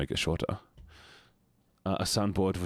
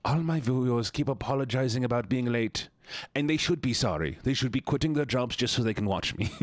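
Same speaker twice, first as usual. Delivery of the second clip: mock diva; 3 semitones higher than usual. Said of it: "make a TikTok where I go".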